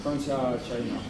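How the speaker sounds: put-on Italian accent; fake foreign language. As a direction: play a tourist faking Italian. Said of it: "Le faux italien".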